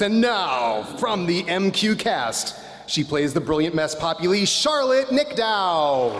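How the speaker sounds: pro wrestler announcer voice. Acted. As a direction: announce her like a wrestling champ. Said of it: "I'm loving my pro wrestler announcer voice".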